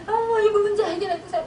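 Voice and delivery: a touch of sobbing in a begging prayer; retold tearful prayer. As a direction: recall weeping to God, a little tearful. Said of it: "맨날 이러고 울었단 말이에요".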